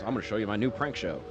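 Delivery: lightly done robotic voice, a hint of it. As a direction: read it like a flat robot. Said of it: "He has, like, a robotic voice".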